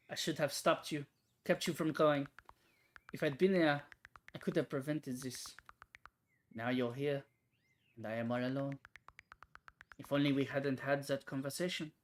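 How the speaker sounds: put-on sorrowful speech in a light French accent. French-speaking woman apologizing at a grave, regretful French accent. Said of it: "give her a French accent to differentiate it".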